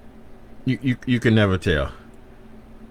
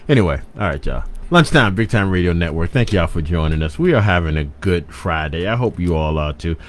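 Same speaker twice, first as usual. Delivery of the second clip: radio announcer; 3 semitones lower than usual. Shown as a demonstration. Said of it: "the whole thing is like a pimp".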